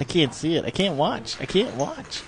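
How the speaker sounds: playfully anguished, climbing to a high squeak; mock dread. Playful dread watching the hand unfold.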